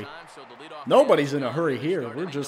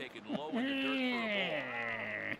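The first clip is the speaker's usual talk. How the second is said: high, soft, drawn-out noise sliding down; long falling whine; 7 semitones higher, 10 dB quieter than usual. Real, not acted. Player lamenting the yellow bar, long falling whine. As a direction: whine it out softly and let it sink. Frustrated noise after failed swing.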